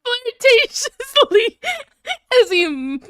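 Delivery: breaking into laughter; high, slow, laughing. Real, not acted. Reading the cringe fic to a co-streamer, cry-laughing. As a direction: choke out the words through laughter.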